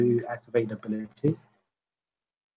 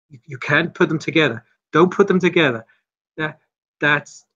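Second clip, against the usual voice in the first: freaking out; 4 semitones higher than usual. Acted. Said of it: "she's really starting to freak out".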